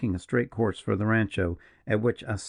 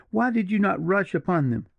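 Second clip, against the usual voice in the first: high, urgent accusing question; wild demand; 10 semitones higher than usual. A narrator's reading. Julia accusing the partisan of cowardice, wild and high. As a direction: push him hard for an answer. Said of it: "wildly catching him".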